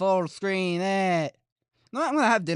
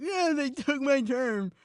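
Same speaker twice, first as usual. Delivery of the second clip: high, drawn-out mock outcry; exaggerated high-pitched quote; mock complaint; 9 semitones higher than usual. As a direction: imitate others crying out, high and slow. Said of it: "They're like".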